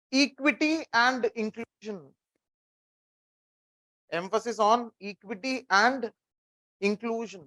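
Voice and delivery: slow, even dictation pace for note-taking. Shown as a demonstration. Teacher dictating a line to students, slow and measured. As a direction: spell it out slowly so they can write. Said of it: "write down one line".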